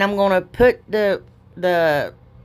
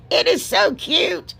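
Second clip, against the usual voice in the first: gushing; 9 semitones higher, slower than usual. Real, not acted. Gushing over own craft.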